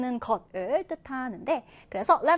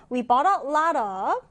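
very slow, clear reading of the English sentence; slow, careful classroom read-aloud; slow model reading; much slower than usual. Shown as a demonstration. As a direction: read it slowly for learners to follow. Teacher reads model sentence.

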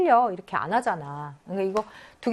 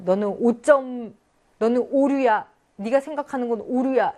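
blunt accusation; 3 semitones higher, 4 dB louder than usual. Shown as a demonstration. Teacher acting a person bluntly calling someone wrong, loud. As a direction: hammer the word 오류 at them. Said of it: "이런 느낌이 아니다".

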